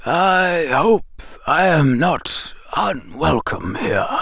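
put-on calm, slow old wizard voice; unhurried and gentle. A narrator's reading. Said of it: "the wizard said calmly".

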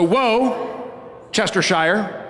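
woe stressed, then Chestershire quickly, R silent; syllable-by-syllable demo; stress on first syllable. Shown as a demonstration. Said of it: "The accent is on the first syllable".

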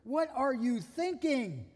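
half-exasperated, teasing rebuke; exasperated Jesus. Retold or imitated. Jesus scolding Peter over the cut-off ear, mock exasperated. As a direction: scold Peter like a patient friend. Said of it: "I can just hear Jesus going".

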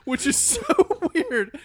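loud, high, half-laughing defense; playfully worked-up concession; insistent pleading. Real, not acted. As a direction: push your point over the laughter. Pleading over friends' laughter.

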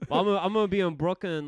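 talking fast through laughter; laughing. Real, not acted. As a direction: laugh out the words. Still laughing after his joke.

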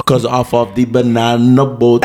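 laughing mock Jamaican accent; joking Jamaican accent, slow. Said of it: "A Jamaican accent?".

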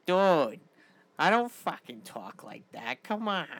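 impression of a friend. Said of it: "I want you guys doing an impression of me".

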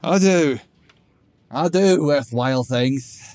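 put-on high, loud drunk protest, words slurring together; drunken slur. Drunk Grog protesting to Theethum, loud and slurred. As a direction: push the words past a numb tongue. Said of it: "Grog slurred".

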